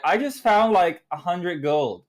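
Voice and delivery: put-on an Aussie kid bragging offhand; Australian kid. Kid telling the town about his gold in mock Australian. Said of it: "they had this Australian kid".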